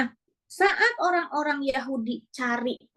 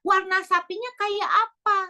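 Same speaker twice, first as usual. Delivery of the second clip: slow, high pestering question; nagging demand; 5 semitones higher, slower than usual. Retold or imitated. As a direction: whine for more detail. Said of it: "Malah nanya lagi".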